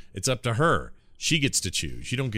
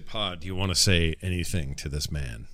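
understated sarcasm, even and measured; dry mock question, pausing before the final word; sarcastic; 3 semitones lower than usual. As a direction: lay light sarcasm on the last word. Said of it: "I say in a very sarcastic way".

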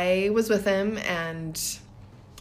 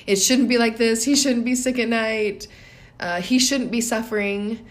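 louder, higher protest against the situation; resisting thoughts; 4 semitones higher, 4 dB louder than usual. Retold or imitated. Mother voicing her resistance to her sick son's night. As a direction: voice the anxious inner complaint. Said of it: "So not like".

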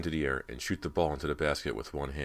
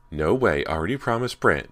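firm, loud insistence; a stubborn girl digging in, loudly; insisting; 4 semitones higher, 9 dB louder than usual. Acted. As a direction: refuse to budge, pushing the words out. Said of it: "Ginny insisted".

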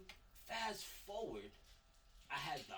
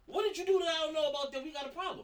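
incredulous loud question; 11 semitones higher, 9 dB louder, faster than usual. Retold or imitated. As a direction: demand it, half laughing. Continuing the retold confrontation.

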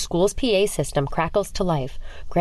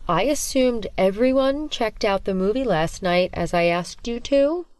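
sinister teacher; 4 semitones higher than usual. Acted. Sinister teacher questions class.

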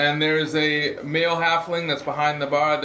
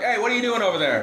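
annoyed owner; 8 semitones higher, faster than usual. Acted. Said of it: "the owner is gonna be like".

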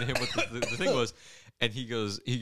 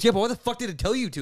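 mock angry question; 11 semitones higher, 4 dB louder, faster than usual. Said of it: "he goes".

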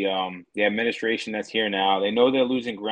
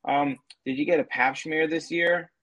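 mock interviewer; 4 semitones higher than usual.

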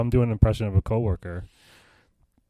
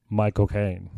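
lightly put-on English actor voice; an attempt at a famous British actor; Michael Caine; much slower than usual. Working on his party-trick voice, light Michael Caine impression. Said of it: "supposed to sound like Michael Caine".

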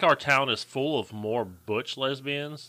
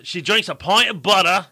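higher, louder mock Scottish; bad Scottish accent; 6 semitones higher, 5 dB louder than usual. Insisting over co-host about the listener, bad Scottish accent. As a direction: push a clumsy Scottish accent hard. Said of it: "you've been working on this accent".

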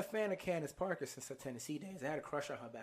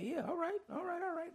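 sing-song all right; neşeli tiz kapanış; playful high. Real, not acted.

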